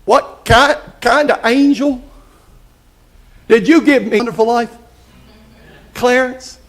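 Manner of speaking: a hint of a halting Jimmy Stewart, barely changed from his own voice; lightly voiced stammering old film star. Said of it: "try to do my best Jimmy Stewart impression".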